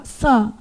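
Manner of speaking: san com vogal nasal vibrando no nariz. Shown as a demonstration. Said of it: "Olha lá, vai vibrar". (san nasal)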